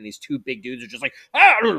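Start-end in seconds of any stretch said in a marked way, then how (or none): 1.3-1.8 brawling yell. Acted. Two brawlers yelling in game narration.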